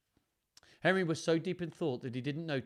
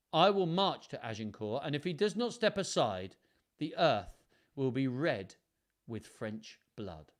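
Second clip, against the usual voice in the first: a king's steady menace; defiant threat; 2 semitones higher, 5 dB louder than usual. Acted.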